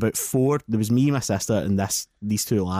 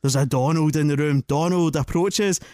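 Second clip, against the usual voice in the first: higher, hammed-up psychic voice, slowing at the end; a hint of a spooky fortune-teller; mock medium; 4 semitones higher than usual. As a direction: mimic a solemn séance medium. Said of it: "the guy's going".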